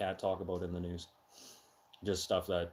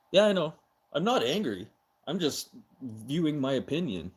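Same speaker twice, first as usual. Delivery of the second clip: loud and high, heated but insisting calm; talking loud; 5 semitones higher, 6 dB louder than usual. Real, not acted. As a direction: push the volume while denying anger. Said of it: "Yes, I'm talking loud".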